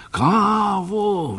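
high delighted exclamation of the word Kávu; eager little shout; excited cry. A narrator's reading. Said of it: "vykřikl doktor".

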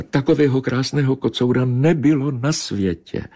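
high, mournful she-cat sigh; plaintive meow. Acted. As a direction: grieve for the handsome tomcat. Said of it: "zamňoukala žalostně kočka". (žalostný, vysoký kočičí nářek)

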